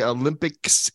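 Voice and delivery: "Olympics" said oddly, warming up for an accent; odd pronunciation. Real, not acted. Host warming up his accents, "Olympics" oddly pronounced. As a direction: put a hint of put-on accent on "Olympics". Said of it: "Why do you say it like that?".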